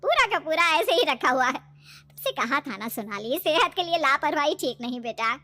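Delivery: mild motherly scolding; chiding mother. Acted. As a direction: lightly scold her for being careless. Mother chides daughter about milk. (माँ की हल्की डाँट)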